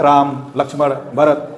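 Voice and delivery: Ram, Lakshman, Bharat with a tiny break after each; brief comma pauses. Shown as a demonstration. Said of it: "थोड़ा सा सांसों को तोड़ना है".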